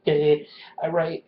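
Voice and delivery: I write said out loud. Real, not acted. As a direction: say I write at full voice. Repeats louder after whisper.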